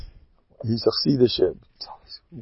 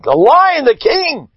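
lion's proud boast; 13 semitones higher, slower than usual. Acted. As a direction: roar it out like the king of beasts. Lion proclaiming himself.

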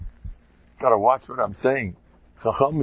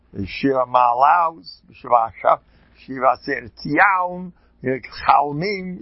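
put-on heavy German Yeki accent; 2 semitones higher, 3 dB louder, slower than usual. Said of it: "With the vav turns into an ow".

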